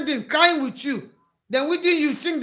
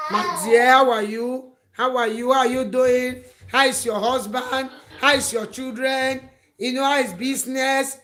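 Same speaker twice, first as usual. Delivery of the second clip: fake-sweet caller; 4 dB louder than usual. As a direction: overdo the caring friend who is really fishing for news. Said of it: "the person that is always calling you".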